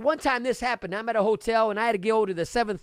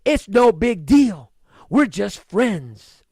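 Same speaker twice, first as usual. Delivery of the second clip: slow, drawn-out imitation of a lame excuse; mock casual excuse; 4 dB louder, much slower than usual. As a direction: stretch it out like a guy brushing it off. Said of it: "you start saying to yourself".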